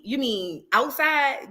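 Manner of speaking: very slow, playing dumb; mocking Megan's answer. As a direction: stretch out "outside" innocently. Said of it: "that's exactly how she sounded".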